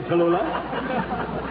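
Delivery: name stretched out on a slow giggle; giggly drawn-out Tallulah; giggling the name. Acted. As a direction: draw the name out while chuckling. Ed Wynn giggling through the name.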